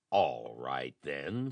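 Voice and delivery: a low, grudging mild snarl; understated low snarl. Acted. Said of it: "snarled Nelson".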